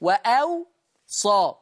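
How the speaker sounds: slow "وأوصى", wa-aw then a single-s sa; hamza between waws. Shown as a demonstration. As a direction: break "وأوصى" with a glottal stop, waw unvoweled. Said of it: "يضع همزة بين الواوين".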